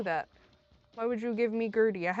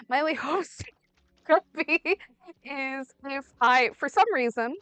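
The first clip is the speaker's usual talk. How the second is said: raised voice, building exasperation; exasperated yelling; 4 dB louder than usual. Real, not acted. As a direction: spell it out loudly in frustration. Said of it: "Sorry if I'm yelling".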